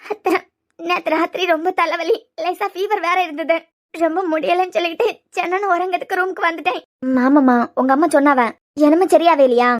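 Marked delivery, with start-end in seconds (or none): 0.0-6.8 weepy, halting account; tearful explanation. Acted. Daughter telling aunt about last night, tearful explanation. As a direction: explain it through sniffles. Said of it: "சொல்லாம அழுதுகிட்டே இருந்தா".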